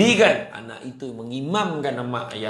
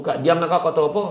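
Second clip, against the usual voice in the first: louder, raised voice telling her to hush; mock angry retort; 4 semitones higher, 6 dB louder, faster than usual. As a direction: snap back at the reader, half in jest. Acted quarrel during tadarus.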